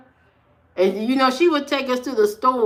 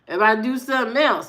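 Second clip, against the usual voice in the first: put-on kid's worried thought; faster than usual. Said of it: "That's probably what he was thinking".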